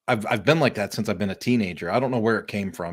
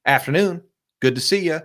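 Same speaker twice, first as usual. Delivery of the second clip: bright, higher, louder hello to passersby; greeting shoppers at the grocery store door, upbeat and cheery; 6 semitones higher, 4 dB louder than usual. Retold or imitated. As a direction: beam a hello at strangers walking out. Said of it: "people are coming out and I go".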